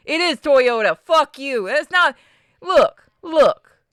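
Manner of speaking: comic high-pitched insistence; mock outrage. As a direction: argue it hotly, in mock exasperation. Mock argument over pronunciation.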